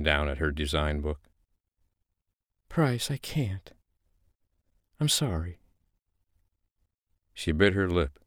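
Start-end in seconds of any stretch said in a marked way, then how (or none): 2.7-5.6 high, slow apologetic voice; high woman, slow and apologetic; sorry woman. Acted. Female character apologising.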